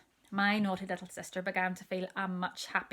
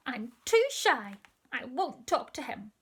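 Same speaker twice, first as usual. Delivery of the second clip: put-on stubborn little girl; 5 semitones higher, 6 dB louder than usual. Child refusing doctor.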